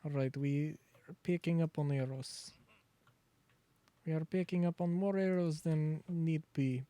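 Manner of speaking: playful mock Russian accent, dropping articles; bad Russian accent. Streamer rambles to chat about a horse factory in a mock Russian accent. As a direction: ham up a cheesy Russian factory boss. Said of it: "Very bad Russian accent".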